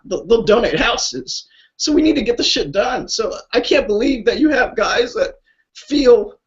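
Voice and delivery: pouring out real feeling for the vets; emotional. Real, not acted. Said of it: "So I'm sorry to get emotional".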